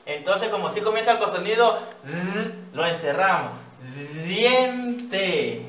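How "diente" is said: said slowly. Shown as a demonstration. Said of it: "lo más despacio posible".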